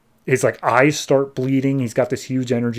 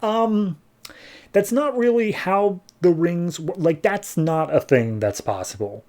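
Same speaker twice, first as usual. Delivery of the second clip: higher, slow unsure protest; hesitant objection; 6 semitones higher, slower than usual. Retold or imitated. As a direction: hem and haw as if it cannot work. The speaker voiced doubting Simon.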